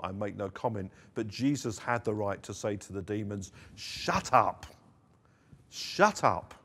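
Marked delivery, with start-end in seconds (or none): 3.8-4.7 firm, louder command to silence; a first firm rebuke; stern command. Acted. Jesus commanding the demons. 5.7-6.5 higher and louder, a stronger second command; escalating stern shout; rising rebuke. Acted. Jesus commanding the demons.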